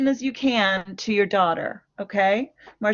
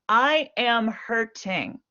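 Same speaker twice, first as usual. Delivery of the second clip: gentle I-statement; slower than usual. Shown as a demonstration. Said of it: "is very different from".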